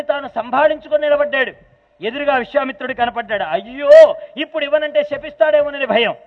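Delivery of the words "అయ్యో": a sudden loud, anguished alas; dismayed cry. Acted. Dasaratha cries out in dread before Vishwamitra, loud dismay. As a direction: blurt it out in dismay.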